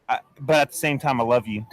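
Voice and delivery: low, soft sincere aside; tender. Real, not acted. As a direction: drop down and mean it. Softens after insults.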